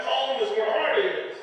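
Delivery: slow, solemn pronouncement; a lightly voiced sage saying; mock profound. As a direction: deliver it like wisdom. Man's sage proclamation.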